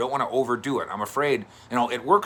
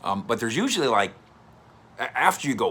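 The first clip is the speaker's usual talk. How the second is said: ordinary talk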